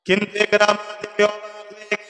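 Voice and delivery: half-sung story with long held syllables; melodic preaching. Real, not acted. Preacher telling how the beasts surrounded Ikrama, melodic preaching.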